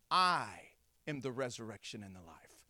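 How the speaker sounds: low, soft, solemn declaration; hushed divine answer. Acted. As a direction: say it gently, deep and unhurried, pausing after "I". Jesus turns back and answers Martha.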